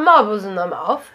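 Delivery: mock British, as if mouth full of marbles; mumbled mock-British accent. Host joking with co-host about British accents, marble-mouthed imitation. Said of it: "sounds like they got marbles".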